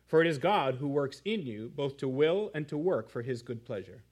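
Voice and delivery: measured, deliberate Bible reading; scripture reading. Acted. Pastor reading Philippians aloud to his congregation, measured and solemn. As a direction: read the passage with weight.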